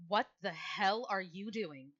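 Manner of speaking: loud and slow, stretched out; shocked, firm challenge; slow, loud demand. Acted. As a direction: demand it, drawing out every word. Ixtal bursts in on struggle.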